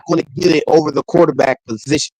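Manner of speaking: glitchy robotic mic sound. Real, not acted. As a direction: voice cutting in and out, robotic. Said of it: "you sound super robotic".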